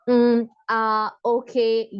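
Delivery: filler sounds demo. Shown as a demonstration. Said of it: "इस तरह के words हमें नहीं यूज़ करने हैं".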